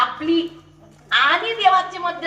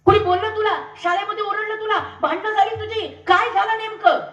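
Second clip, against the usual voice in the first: tender mother; 5 semitones higher, 3 dB louder than usual. Acted. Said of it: "बघा आईची भूमिका".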